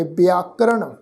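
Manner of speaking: "ਵਿਆਕਰਨ" as bi-aa-ka-ran, starting on b; short i then long aa in "ਵਿਆਕਰਨ"; demonstrated pronunciation. Shown as a demonstration. Teacher showing how to recite the word, careful pronunciation. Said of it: "ਪਾਠ ਵੀ ਉਚਾਰਨ ਕਰਾਂਗੇ".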